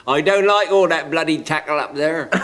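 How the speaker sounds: rustic Sussex grumble; a hint of a Sussex farmer complaining; country Sussex voice, lightly done; rustic Sussex accent. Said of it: "a very rustic voice".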